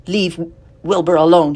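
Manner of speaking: loud, sharp rebuke; sharply. A narrator's reading. Spider scolds the lamb for teasing the pig, sharply. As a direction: snap at the lamb to back off. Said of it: "she spoke sharply to the lamb".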